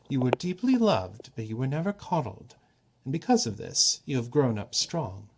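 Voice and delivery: the god turns serious with his daughter; a hint of the god Klepnos. Klepnos to Esme, lightly voiced and earnest.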